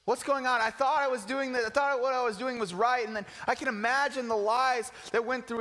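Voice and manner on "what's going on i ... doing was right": shocked Paul. Retold or imitated. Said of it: "And he's like".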